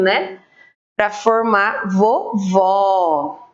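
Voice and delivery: slow, careful spelling of vovó letter by letter. Shown as a demonstration. Teacher to young pupils, spelling vovó slowly. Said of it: "olha só".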